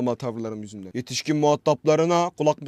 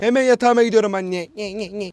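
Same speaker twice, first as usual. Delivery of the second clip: high mocking nye-nye kid voice; mock it like a sulky child; 6 semitones higher, 4 dB louder than usual. (alaycı çocuk sesi, yüksek)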